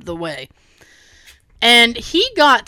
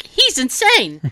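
slow, emphatic retold disbelief; acted-out appeal to onlookers; hysterical; slower than usual. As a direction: draw out INSANE in mock hysterics. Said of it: "I was actually hysterical".

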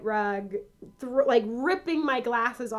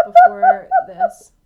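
mock disappointed; 16 dB louder, slower than usual.

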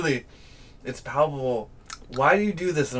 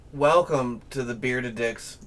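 show intro; 3 dB louder than usual. Acted. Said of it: "Bearded Dicks Musical Fun Time".

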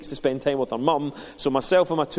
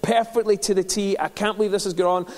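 higher and louder, pleading protest; venting at God, pitched up, a touch louder; frustrated complaint to God; 7 semitones higher, 3 dB louder than usual. Retold or imitated. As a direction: lay the complaint before God, exasperated. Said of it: "And I'm like".

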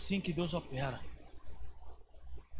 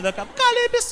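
mock shout; 10 dB louder than usual. Mimics the blaring Calypso music.

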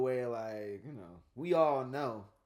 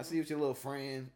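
suspicious warning. Shown as a demonstration. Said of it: "That's a different story than".

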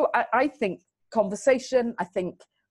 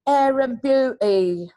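mock Midland kid; 4 semitones higher, 6 dB louder, slower than usual. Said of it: "the Banbury kids going".

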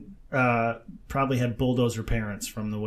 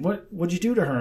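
higher-pitched retold accusation; confrontational; 5 semitones higher than usual. Man questions interviewer about the woman, mock confrontational. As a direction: imitate someone demanding an explanation. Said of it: "confrontational, yeah".

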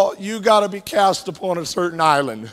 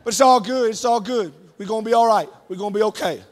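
mock laid-back Uber driver; faster than usual. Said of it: "Mister Man Bun turns around and says".

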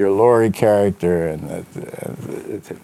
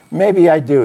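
hard-boiled detective voice; 6 semitones higher, 4 dB louder than usual. Acted. Reading Spade's reply.

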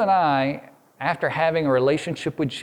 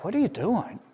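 higher, hushed, wounded disbelief; hurt God; 4 semitones higher than usual. Acted. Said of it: "he's like".

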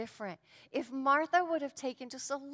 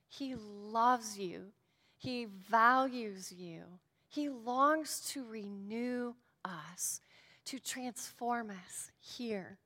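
tender reassurance; slower than usual. Acted. Reassuring the congregation.

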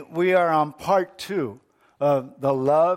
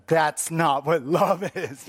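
wife, laughing. Acted. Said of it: "the wife is gonna tell her husband".

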